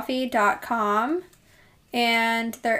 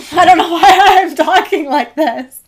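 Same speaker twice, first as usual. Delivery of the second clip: slipping into a light Irish accent; accidental Irish lilt; 6 semitones higher, 9 dB louder than usual. Real, not acted. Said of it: "I think you just had an accent for a little bit".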